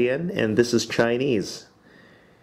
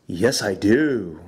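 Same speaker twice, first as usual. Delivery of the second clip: whisper; 3 semitones lower, much slower than usual. Shown as a demonstration. Teacher answering student's question.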